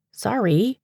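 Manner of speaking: breezy, barely sorry; a throwaway sorry with a rise; unapologetic. Acted. Paige to Dewey tugging his sweater, unapologetic and light. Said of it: "in a less than apologetic tone".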